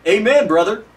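loud, hearty churchgoer's "Amen, brother"; mock hearty amen. Preacher mocking rote churchgoers, with a loud hearty amen. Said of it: "sitting under some pastor and going".

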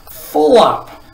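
loud, high overfed grunt. A narrator's reading. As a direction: grunt it out from a full belly. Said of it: "grunted the undersecretary".

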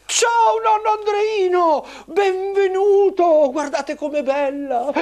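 high squeaky puppet lady; sweet puppet mother, pitched high; squeaky shrill puppet voice. Acted.

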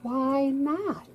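small high question; little voice. Acted. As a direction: ask it in a tiny voice. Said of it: "in a very little voice".

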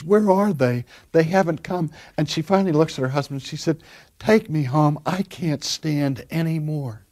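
distressed plea. Retold or imitated. Suffering wife begging her husband to take her home, mild anguish. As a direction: plead as if worn out by pain. Woman in pain pleads again.

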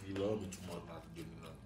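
talking through a mouthful of food; words round a bite of food; mouth full. Real, not acted. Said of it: "stop talking with your mouth full".

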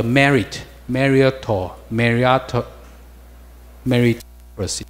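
MERITOCRACY built up slowly from merit; built up in pieces. Shown as a demonstration. Teacher builds a word for the class from merit, slow piece-by-piece pronunciation. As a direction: sound out MERITOCRACY part by part, with gaps.

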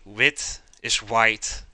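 "wit" said slowly and clearly; slow pronunciation. Shown as a demonstration. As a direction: spell out "wit is white" slowly. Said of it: "We say".

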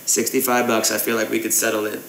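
casual fake English accent for a prank call; put-on English accent. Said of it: "gaming in an English accent".

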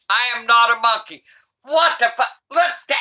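ordinary delivery

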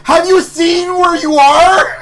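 high, loud words through laughter; half-sobbing with laughter; laughing. Real, not acted. Cracking up over the joke.

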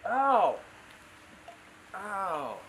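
sudden loud high ow; real pain yelp. Real, not acted. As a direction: yelp as a tiny finger scratches. Baby cut his nose.

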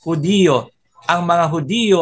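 Hudiyo with the stress on a drawn-out "di"; accent on the I. Shown as a demonstration. Teacher showing the Spanish word, stress on the I of Hudiyo. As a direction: say Hudiyo as three syllables, hu-DI-yo. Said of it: "Ang accent nasa I".

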